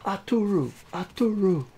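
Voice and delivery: high, loud call of a name. A narrator's reading. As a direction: call out to the hero over a crowd. Crowd calls the hero's name.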